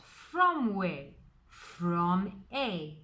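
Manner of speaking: "from" punched in question and answer; short teacherly question and answer, each leaning on "from"; stress on from. Shown as a demonstration. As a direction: press on "from" both times. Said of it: "I'm putting emphasis on the word from".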